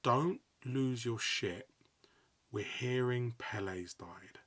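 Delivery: slow, careful, steadying; slow hushed heads-up; urgent calm warning. Retold or imitated. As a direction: break bad news gently but firmly. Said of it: "she's gone".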